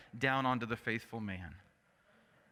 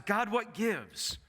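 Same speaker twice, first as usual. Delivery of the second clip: higher, pressing complaint that sinks at "Why"; indignant demand to God; 4 semitones higher than usual. Retold or imitated. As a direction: confront God with your grievance. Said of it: "stands before God and says".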